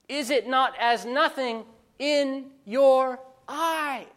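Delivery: slow reading leaning on "your" before "eyes"; stress on your eyes. Shown as a demonstration. Preacher reading Haggai's question, underlining the eyes. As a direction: draw it out and push "your eyes". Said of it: "Listen to the visual terms he uses".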